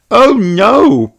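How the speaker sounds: put-on high little girl pig, eager; young piglet asking, impatient; child's high eager voice; Peppa voice.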